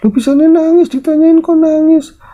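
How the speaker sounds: put-on startled old woman. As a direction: act out a granny alarmed by sudden tears. Nenek kaget melihat Vina menangis. (nenek kaget bertanya, nada tinggi)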